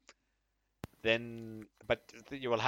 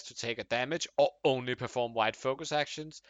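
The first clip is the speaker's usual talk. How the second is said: passionate manly man, building up; manly man's voice; 3 dB louder than usual. Acted. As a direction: read it like a fired-up man. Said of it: "read it in, like, a passionate, uh, a man, manly man's voice".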